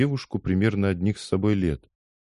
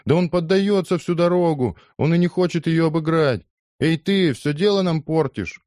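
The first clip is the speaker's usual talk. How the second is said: high, louder aggrieved complaint; complaining; 10 semitones higher, 4 dB louder than usual. Acted. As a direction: protest the unfair play, much higher and louder. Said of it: "стали выражать недовольство".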